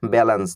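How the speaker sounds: ব্যালেন্স said as English balance; careful English balance, falling; English pronunciation. Shown as a demonstration. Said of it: "এই শব্দটির উচ্চারণ হলো". (ইংরেজি উচ্চারণে ব্যালেন্স)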